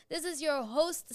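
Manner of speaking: slow mock captain on the intercom; playful pilot voice; pilot announcement. Host mimics pilot intercom line.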